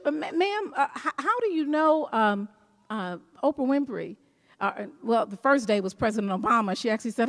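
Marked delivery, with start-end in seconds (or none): 0.0-4.2 mildly flustered, halting doubt; hesitant questioning. Retold or imitated. Usher questioning a self-declared VIP, hesitant.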